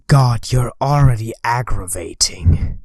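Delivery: annoyed whisper under breath; whispered aside. Real, not acted. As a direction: whisper it to yourself, fed up.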